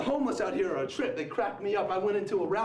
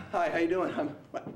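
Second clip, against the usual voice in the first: words chopped by dropouts; cell phone breaking up. Pretend. Prankster talking to a stranger like a bad cell connection, cutting out. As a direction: stutter out broken scraps with sudden gaps. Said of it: "as if it's a cell phone breaking up".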